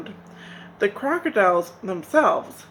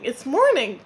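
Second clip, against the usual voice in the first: the repeat a little less loud; crying out; 5 semitones higher, 4 dB louder than usual. Acted. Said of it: "cried Spider".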